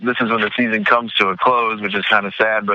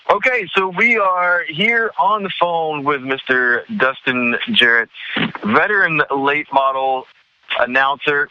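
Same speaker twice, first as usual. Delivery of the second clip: hyped announcer intro, higher and slower; big build-up; 4 semitones higher, slower than usual. Acted. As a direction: build him up like a star guest. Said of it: "that nice big build-up that you gave me".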